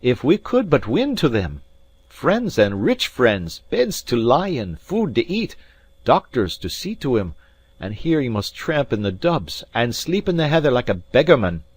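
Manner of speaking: high, loud, pleading lament; Alan, impassioned. A narrator's reading. Alan tells the maid of rich friends out of reach, impassioned.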